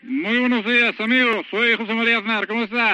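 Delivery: Aznar impression. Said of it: "le paso con el presidente Aznar".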